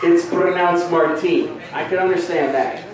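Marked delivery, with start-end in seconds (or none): 0.0-1.6 "Martine" said slowly, stressed on the long last syllable; pompous name correction. Retold or imitated. Offended dude correcting his name, slow and pointed. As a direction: mimic a precious correction, stretching Martine. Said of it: "and he's like".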